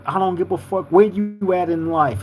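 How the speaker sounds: real passion, talking straight to the homies; passionate. Real, not acted. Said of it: "It's with passion, it's with love".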